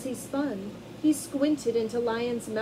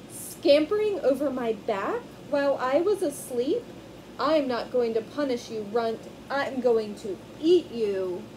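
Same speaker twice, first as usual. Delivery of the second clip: grumpy lion; 5 dB louder than usual. Acted. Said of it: "King Lion in a bad humor".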